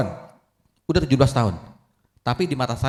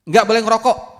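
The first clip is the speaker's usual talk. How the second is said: much louder, higher firm order; stern father; 10 semitones higher, 7 dB louder than usual. Acted. Father loudly forbidding his son to skip school. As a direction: bark the rule.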